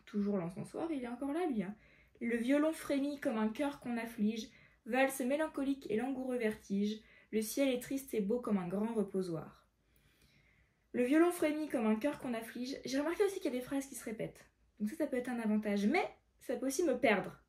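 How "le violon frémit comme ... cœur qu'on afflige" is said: measured verse read-aloud; careful recitation of verse; poem reading. Acted.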